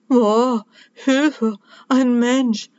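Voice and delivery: startled squeak of fear; tiny frightened cry. A narrator's reading. Elf spotted by the girl, cries out in a tiny voice. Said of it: "schreit er, aber seine Stimme klingt ganz leise".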